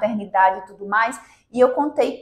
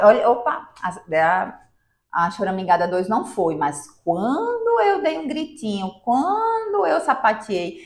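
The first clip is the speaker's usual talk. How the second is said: put-on child's voice. Mother voicing her daughter's thoughts as a lightly acted child. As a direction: play the child realizing the stomp worked.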